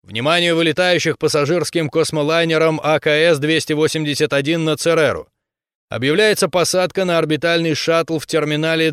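public address announcement; echoing stadium announcer. Acted. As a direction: read it like a spaceport speaker. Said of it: "голосом диктора".

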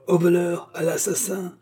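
high-pitched call for help; high, urgent narrated cry; repeated cry of alarm. A narrator's reading. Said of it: "répéta le jeune bandit".

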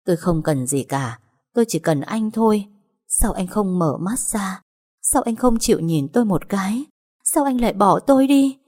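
woman crying over her fiancé, pleading; sobbing plea. Acted. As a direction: plead through tears, breaking on the last question. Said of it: "khóc như điên như dại".

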